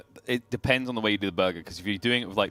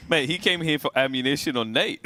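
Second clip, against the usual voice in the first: laughing; 4 semitones higher than usual. Real, not acted. Laughing at the joke.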